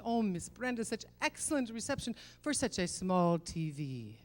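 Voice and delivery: imitating husband's Middle Eastern accent; lightly mock Middle Eastern accent, coaxing. Husband hints to wife about a bigger TV, Middle Eastern accent. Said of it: "I'm doing a Middle Eastern accent".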